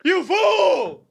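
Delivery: hammed-up fury; mock outraged yell. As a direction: rail at the crowd like a madman. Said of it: "I'm like".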